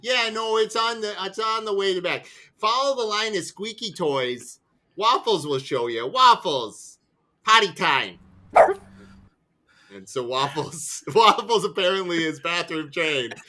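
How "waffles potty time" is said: calling the dog. Acted.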